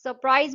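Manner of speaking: long सर, gap, then प्राइज in सरप्राइज; syllable by syllable. Shown as a demonstration. Teacher shows two claps in सरप्राइज, syllable by syllable. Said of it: "तो दो बार clap होगा".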